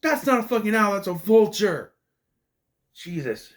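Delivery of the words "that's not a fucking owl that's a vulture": louder, higher exasperated outburst; indignant rant. Real, not acted. Reviewer shouting at the film over the owl design, exasperated. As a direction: throw it at the screen in disbelief.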